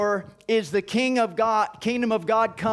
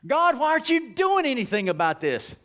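higher, plaintive cry to God; impatient prayer, pitched up; pleading complaint; 4 semitones higher than usual. Acted. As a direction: ask like a frustrated child.

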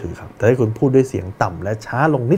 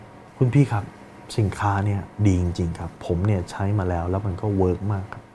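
confident; 5 dB quieter than usual. Shown as a demonstration. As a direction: pitch it to a customer with calm certainty. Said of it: "ดูมั่นใจไหม?". (น้ำเสียงมั่นใจ หนักแน่น)

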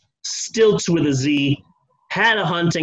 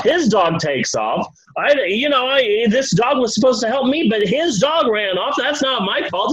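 put-on drunk angry rant; 4 semitones higher than usual. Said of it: "and he's like".

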